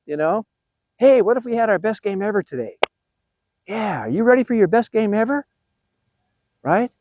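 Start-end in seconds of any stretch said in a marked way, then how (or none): 1.0-5.5 mildly hyped pep talk with lively swoops; acted excitement. Shown as a demonstration. Coach showing how to make it fun, acted excitement. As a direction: act excited to rally the team. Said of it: "you have to act excited".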